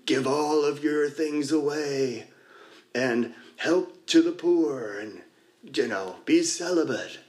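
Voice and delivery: slow, drawn-out divine command, only a little changed; hint of a solemn God, slowed right down; lightly voiced God. Sharing at a meeting, retelling a spoof skit's God, slow and solemn.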